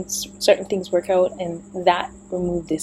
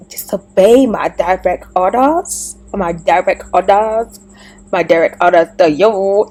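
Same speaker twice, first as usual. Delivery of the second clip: louder, insistent, repeating the order; stern command; 5 dB louder than usual. Retold or imitated. Voicing God sternly commanding her to obey his orders. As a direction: lay down the law like God.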